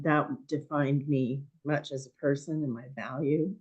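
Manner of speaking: hoarse, voice going. Real, not acted. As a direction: speak through a hoarse, failing voice. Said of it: "losing my voice".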